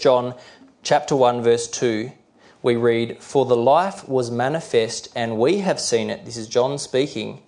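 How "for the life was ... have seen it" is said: measured scripture reading; deliberate Bible reading; slow, clear reading. Real, not acted. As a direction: read the verse out carefully and clearly. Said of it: "I'll try to read them slowly and clearly".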